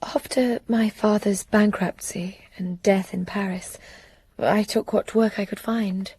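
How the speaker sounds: hushed, breathy telling of her past; whispered confession. Acted. Célie tells her story in whispers.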